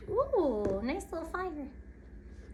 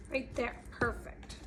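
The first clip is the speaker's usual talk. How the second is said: whispered; 5 semitones lower, 12 dB quieter than usual. Real, not acted. Pretend tea party aside.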